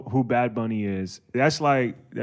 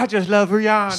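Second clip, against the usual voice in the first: imitating passionate friend; 6 semitones higher than usual. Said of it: "I never heard Terrell talk like that".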